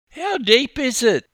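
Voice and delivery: put-on nervous four-year-old checks the depth; wary little boy. A narrator's reading. Little boy asks coach about the water, high and wary. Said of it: "the wary little boy inquired".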